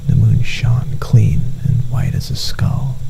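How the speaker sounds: soft whispered narration. A narrator's reading. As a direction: draw the listener close with a whisper.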